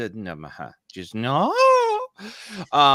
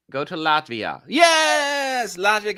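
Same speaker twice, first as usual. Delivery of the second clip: shouted, much higher Yes; excited cheer; 6 semitones higher, 4 dB louder, slower than usual. Real, not acted. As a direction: cheer your favourite on. Cheering for Latvia.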